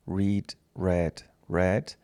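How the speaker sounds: "Read" as reed, then "read" and "read" as red; "Read" com som de "rid", depois "read" como "red"; same spelling, new sound. Shown as a demonstration. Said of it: "ele muda só o som".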